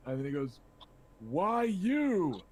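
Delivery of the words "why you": higher, louder bellow from above. Acted. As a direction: bellow it down from the tower. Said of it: "comes bellowing down".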